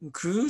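クー as one drawn-out syllable; reconstructed pronunciation. Shown as a demonstration. Lecturer showing the sound in Vietnamese's ancestor, pronunciation demo. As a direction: hold the vowel of クー. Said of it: "こういう音だった".

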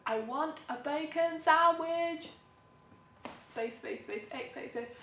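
slow and loud, a hammed-up lazy demand; mocking a bored man's one-line message. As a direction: drawl it out like a lazy texter.

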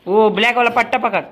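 giving orders through laughter; laughing instructions. Real, not acted. Vlogger laughing as kid chases goat, laughing through orders. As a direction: laugh while telling him what to grab.

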